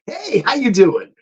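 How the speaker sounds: high, slow, beaming hello; enthusiastic greeting. Retold or imitated. Trying again with the assistant, high beaming hello. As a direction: greet her like an old friend.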